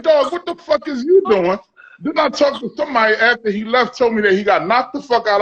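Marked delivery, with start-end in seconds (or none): 0.0-1.6 pitched-up retold yell at his boy; mock yell. S0 reliving yelling at his friend in the bathroom, pitched-up mock yell. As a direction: play back the heated bathroom shout. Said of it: "You like".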